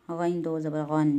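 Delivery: गैन दो ज़बर गन spelled slowly; slow, clear recitation; slow spelling drill. Shown as a demonstration. Teacher models recitation for a slow learner, slow. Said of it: "पहले दो ज़बर का".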